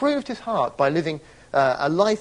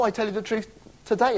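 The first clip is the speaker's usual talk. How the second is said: quick, dismissive "I tell you the truth today"; mock redundant reading; 4 semitones higher, faster than usual. Shown as a demonstration. Preacher dismissing a needless phrase, quick mock line. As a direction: toss it off as obviously pointless. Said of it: "it's, it's a tautology".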